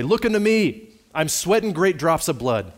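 acted preacher's ringing, repeated plea; impassioned preaching. Preacher voices Christ calling to the sinner from the cross, impassioned calling. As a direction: call out each appeal high and loud, then ease down. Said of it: "the good man followed up his text in this way".

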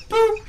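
little boop. Pretend. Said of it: "I'm over here like".

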